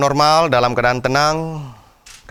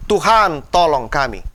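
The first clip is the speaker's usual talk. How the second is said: crying out to God. Shown as a demonstration. Preacher leading the congregation in a cry for help, imploring. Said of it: "ulurkan tanganmu dan berkata".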